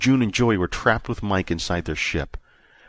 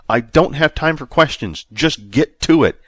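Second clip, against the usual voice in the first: impatient; 6 semitones higher, 6 dB louder than usual. A narrator's reading. Impatient order.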